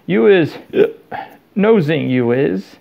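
a tipsy elf pointing a wobbly finger; tipsy Winky accusing Harry; drunken accusation. A narrator's reading.

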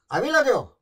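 mentor's greeting. Retold or imitated. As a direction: call out the greeting to the newcomer. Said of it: "quoting mentor".

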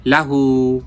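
লাহু with quick লা and long হু; short লা, then hold out হু; elongated ending. Shown as a demonstration. Teacher showing the one-alif madd, লাহু with stretched ending. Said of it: "এক আলিফ টেনে পড়তে হবে".

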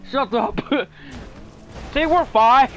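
loud, high mock-Russian insistence; a Russian driver brushing off the teasing; Russian accent. Shutting down his friend's teasing in a Russian accent. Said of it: "back to Russian accent".

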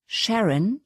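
high whining wail, swooping upward; yowling protest. A narrator's reading. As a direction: yelp the name in rising protest. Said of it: "jaulte Holly auf". (hoch aufjaulend, gequält)

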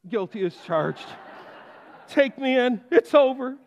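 laughing mock surrender. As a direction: give up with a laugh.

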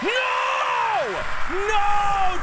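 sharp loud cry of no; shouting. Real, not acted. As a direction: yell it in real panic. Shouting at sudden game loss.

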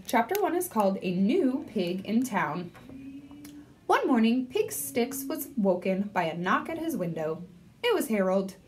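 lively read-aloud with voiced characters; story narration. A narrator's reading. Librarian reading to third graders, lively storytelling. Reads chapter book aloud.

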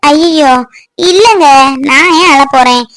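protesting, pitch jumping up on the insistence; mildly exasperated wife covering up; exasperated denial. Acted. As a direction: brush off the worry, a touch too insistently. Wife insists she wasn't crying.

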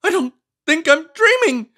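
high, loud indignant scolding voice; fussy book character. Acted. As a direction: scold the reader for snacking. Character tries to wake up.

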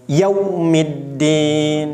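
Yaumiddin with rounded lips and a quick yau; correct yau. Shown as a demonstration. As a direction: recite Yaumiddin slowly, lips pushed forward. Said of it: "bibir harus monyong dan tarikannya cepat".

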